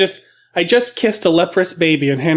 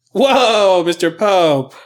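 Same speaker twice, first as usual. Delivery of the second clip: drawn-out, raised "whoa" of alarm; exclaimed alarm; 3 semitones higher, much slower than usual. Acted. Rescuer to tripping Pope, acted alarm. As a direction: play a surprised shout, easing on the name.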